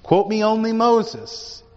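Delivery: mock pleading. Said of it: "they were like".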